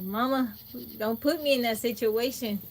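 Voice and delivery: half-crying plea to mama; mock whiny plea. Daughter begging her mama not to make her tell, mock crying. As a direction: whine it like a kid caught in the middle. Pleading with mom in retold scene.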